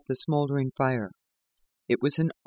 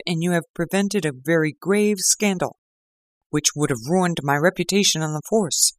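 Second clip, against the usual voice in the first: grateful inspector; 4 semitones higher than usual. Acted. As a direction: confide your thanks in earnest. Lestrade thanks Holmes.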